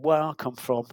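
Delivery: lightly imitated Cockney accent; attempted Cockney accent. Football captain confronting young reporter, in a lightly attempted Cockney accent. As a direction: have a rough go at a Cockney accent. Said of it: "this is my Cockney accent, apologies for it".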